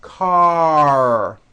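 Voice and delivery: car with a loud, strong closing R; strong final R. Shown as a demonstration. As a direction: push the R at the end of car. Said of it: "The R needs to be very strong".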